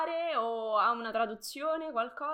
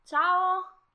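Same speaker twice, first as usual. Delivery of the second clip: excited greeting; 7 semitones higher, 8 dB louder than usual. Real, not acted. Saluta di nuovo lo spettatore.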